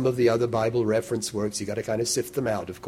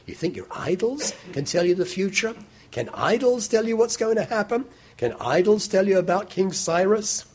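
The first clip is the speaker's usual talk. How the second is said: challenging God; 9 semitones higher than usual. Retold or imitated. Voicing God's challenge to idols.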